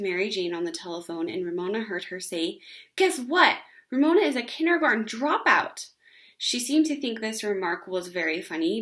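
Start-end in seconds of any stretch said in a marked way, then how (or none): 3.0-5.9 gleeful, higher and louder, teasing; teasing big sister. Acted. Beezus on the phone to her friend, gleeful teasing. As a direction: show off the gossip to your friend.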